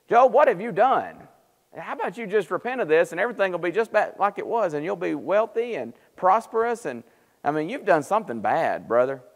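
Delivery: lightly acted admonishing friend; accusing friend. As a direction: press Job to confess, imitating a friend. Acts out Job's friends accusing him.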